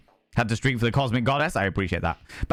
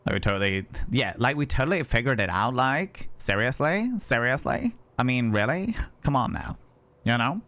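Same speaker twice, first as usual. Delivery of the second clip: put-on Valley Girl. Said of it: "The Valley Girl impression".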